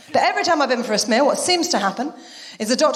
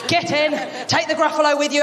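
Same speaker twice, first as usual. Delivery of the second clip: mock order; 3 semitones higher than usual. Ordering the cat into pen.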